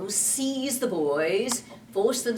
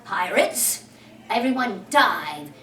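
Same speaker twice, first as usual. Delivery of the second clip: 1 calling out; 6 dB louder, slower than usual. Acted. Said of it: "he called".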